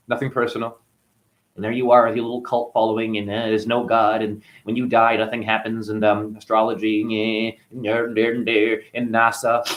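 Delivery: lightly mocked, low monotone drone; mocking little voice. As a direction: imitate his droning little voice, slightly low. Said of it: "you're talking like this".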